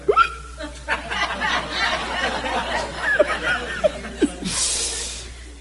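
long, high wavering cry; high mock whimper. Preacher acting out his reaction to God, high whimper.

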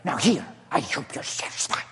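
hushed, resigned mother; mother giving in to her son, resigned whisper; defeated whisper. Acted. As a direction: hand it over under your breath.

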